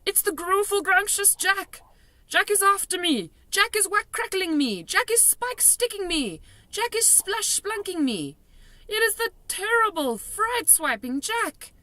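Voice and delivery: high, frantic terrified ranting; terrified raving. A narrator's reading. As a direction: rave in mounting panic. Giant raving in terror.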